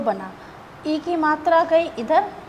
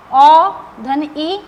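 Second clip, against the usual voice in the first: slow spelled-out sum; 8 dB louder, much slower than usual. Shown as a demonstration. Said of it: "teacher spells out vowel sum".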